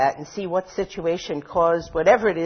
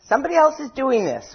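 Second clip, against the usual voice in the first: high whining blame-shift; whiny victim; 8 semitones higher, 5 dB louder than usual. Retold or imitated. Inner victim whining that others are to blame. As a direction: whine it off onto someone else. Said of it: "you can hear it whining".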